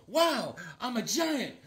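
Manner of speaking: hushed, swooping amazement; wonderstruck. Acted. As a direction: marvel in drawn-out mock awe. Acting out Beckerman's wonder at growing.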